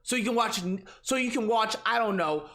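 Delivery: dim fanboy voice. Acted. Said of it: "this whole Tard voice thing he's doing".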